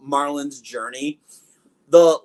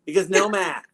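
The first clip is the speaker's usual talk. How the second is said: put-on Boston fan accent; 3 semitones higher than usual. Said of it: "anytime I hear that, that accent".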